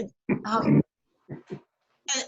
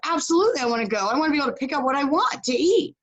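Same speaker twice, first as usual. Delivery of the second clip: eager; 4 semitones higher, faster than usual. Retold or imitated. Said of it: "He was desperate to get the knowledge".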